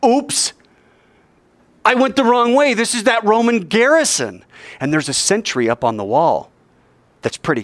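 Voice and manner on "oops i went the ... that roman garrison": high-pitched dawning oops; alarmed realization. Acted. Rabbi realizes he reached the Roman garrison, higher-pitched alarm. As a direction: realize the mistake, pitch jumping up.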